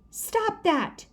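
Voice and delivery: high, sharp shout. A narrator's reading. Sheila yelling at the twirling kids, high shout. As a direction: yell it to stop them. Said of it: "Sheila shouted".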